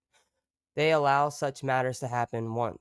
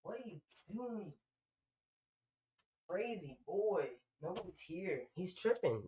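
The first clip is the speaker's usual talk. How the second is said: much higher and much softer, cooing; 6 semitones higher, 11 dB quieter than usual. Real, not acted. Talking to her dog Moose in high, soft baby talk.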